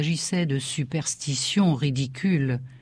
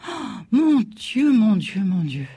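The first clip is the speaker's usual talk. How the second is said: alarmed exclamation; 4 semitones higher, 4 dB louder than usual. A narrator's reading. Mother carrying off her reading child, alarmed. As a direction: start high and loud, then descend with each repeat. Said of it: "ma mère pâlit".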